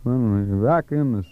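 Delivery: a lightly voiced rambling old timer; old wino. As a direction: play a drifting old drunk reminiscing. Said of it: "I wanna try my wino character".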